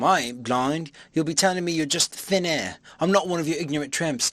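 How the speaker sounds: a tramp refusing to be fooled; scoffing tramp. Acted. Marvel scoffing at the voice.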